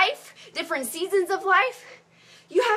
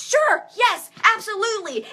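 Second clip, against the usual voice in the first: eager yes; 5 semitones higher than usual. Retold or imitated. Acting out accepting marriage proposal.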